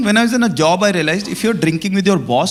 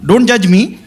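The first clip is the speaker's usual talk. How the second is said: laughing; 4 semitones higher, 4 dB louder than usual. Real, not acted. Comedian jokes about drinking at fifteen.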